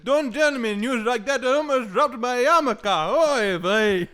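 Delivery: put-on high, loud, slow old Jewish man. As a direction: play a scandalised old Jewish grandfather. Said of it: "this Jewish, old man Jewish voice".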